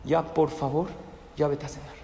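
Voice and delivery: soft, low, restrained parental request. Shown as a demonstration. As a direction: drop your voice below normal to give the order. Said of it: "baja la voz más del tono normal".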